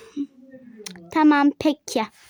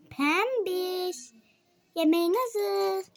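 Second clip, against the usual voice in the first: softer call; 2 semitones higher, 8 dB quieter, slower than usual. Acted. Mother calls Pembiş a second time, quietly. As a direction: call again, much softer, almost to herself.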